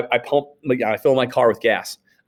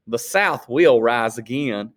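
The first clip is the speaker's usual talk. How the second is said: a hint of a slow ominous drawl; ominous clerk; slower than usual. Teacher voicing the clerk's parting threat, slow and ominous. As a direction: say it slowly like a veiled threat.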